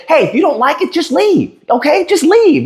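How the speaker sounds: high, sneering "just leave, okay?"; a commenter's taunt, mocked high and sneering; mocking "just leave". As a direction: mimic the smug brush-off. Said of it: "somebody said what y'all said".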